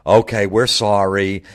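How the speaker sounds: mock-sincere apology, drawn out. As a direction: fake a spineless sorry. Mocking the league's apology.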